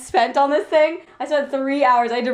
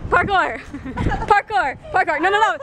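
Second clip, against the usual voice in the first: excited yell; 8 semitones higher than usual. Pretend. Yelling parkour repeatedly.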